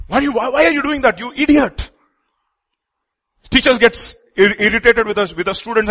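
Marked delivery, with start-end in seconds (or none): 0.1-1.9 mock angry parent. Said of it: "I'm just giving you an example".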